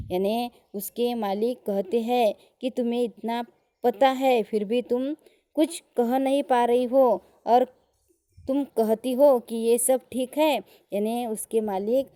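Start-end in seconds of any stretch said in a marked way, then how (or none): 2.7-10.6 louder, mock-furious scolding; angrier master. Teacher voicing the master scolding timid Julia, mock angry. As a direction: lay into Julia like a boss losing patience. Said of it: "और भी गुस्सा होते हैं".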